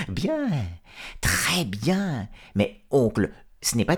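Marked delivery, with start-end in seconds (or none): 0.1-2.3 whisper. Acted. Renard whispering sly praise.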